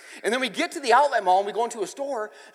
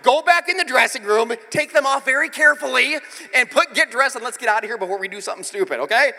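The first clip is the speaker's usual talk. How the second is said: stern dad; 5 semitones higher, 7 dB louder than usual. Retold or imitated. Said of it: "I'm like".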